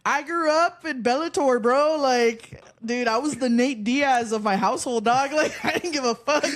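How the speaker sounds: excited bragging. Real, not acted. Boasting about fighting brothers, laughing.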